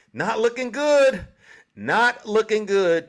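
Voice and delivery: slow, loud mock-ominous warning; taunting. Real, not acted. Taunting Truck about Trump's chances, slow and loud. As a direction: drag it out to rub it in.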